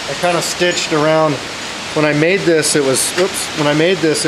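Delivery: projecting outdoors over a storm; loud. Real, not acted. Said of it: "hopefully you can hear me over the wind".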